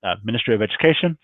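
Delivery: losing the voice, a bit hoarse. Real, not acted. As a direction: talk with a tired, hoarse voice. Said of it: "I'm losing my voice today".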